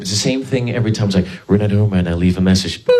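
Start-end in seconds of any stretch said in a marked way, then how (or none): 1.5-2.8 lightly voiced answering machine, lower pitch; a hint of a recorded greeting. Mom's machine picks up every time, answering machine greeting. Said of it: "wait for the answer machine". 2.8-2.9 imitated machine beep; answering machine beep. Answering machine ends its greeting, imitated beep. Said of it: "wait for the answer machine".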